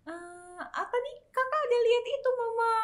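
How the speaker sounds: put-on high-pitched little kid voice; imitated little child. Mother voices Chloe answering Mama in the car, childlike. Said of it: "Chloe, kenapa teriak?".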